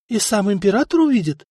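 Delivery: rising astonished question on "император"; wide-eyed disbelief; amazed question. Acted. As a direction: servant astonished at the emperor. Servant's eyes widen.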